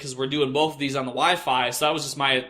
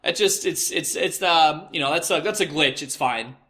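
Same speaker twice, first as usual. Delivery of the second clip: higher mock flustered stammer; 3 semitones higher than usual. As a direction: fumble for an excuse, stammering. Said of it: "When I'm like".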